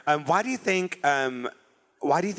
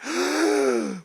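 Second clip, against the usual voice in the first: gay gasps; 3 semitones lower than usual. Retold or imitated. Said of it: "gay gasps".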